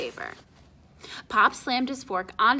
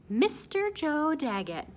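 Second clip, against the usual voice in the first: lightly voiced proud father; 7 semitones higher than usual. Pop announcing the caller.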